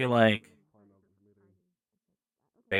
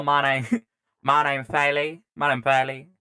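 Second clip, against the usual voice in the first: southern accent; 3 semitones higher, slower than usual. Shown as a demonstration. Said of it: "a southern accent".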